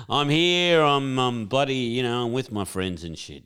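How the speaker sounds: mock his excuse while cracking up; laughing mockery. Teasing the lonely boss at the bar, laughing mock voice.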